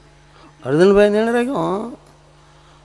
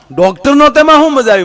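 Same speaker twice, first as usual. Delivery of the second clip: much higher, louder disbelieving question; incredulous retort; 10 semitones higher, 6 dB louder, faster than usual. Acted. Teller challenging his friend's story, loud and incredulous. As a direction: fire back in loud disbelief.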